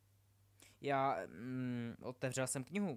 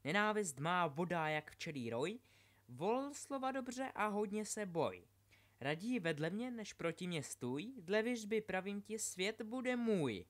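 dark talking book; 6 semitones higher than usual. A narrator's reading. The Voldemort book recites.

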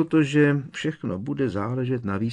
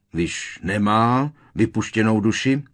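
loud, raised-pitch challenge; barking; 4 semitones higher, 6 dB louder than usual. A narrator's reading. Uncle challenging nephew about the soul, barking. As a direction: bark it as a rising question. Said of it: "vyštěkl strýc Vernon".

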